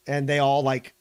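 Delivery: ordinary talk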